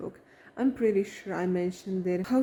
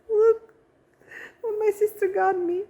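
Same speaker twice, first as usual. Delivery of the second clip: much higher and louder, bursting with joy; thrilled gift reveal; 13 semitones higher, 6 dB louder than usual. Real, not acted. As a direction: squeal it out, showing the gift off. Showing off a surprise gift.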